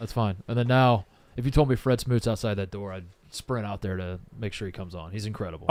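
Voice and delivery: ordinary talk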